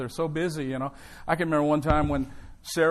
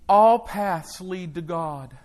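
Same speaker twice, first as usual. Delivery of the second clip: imitating Oprah; 4 dB louder, much slower than usual. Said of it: "She said".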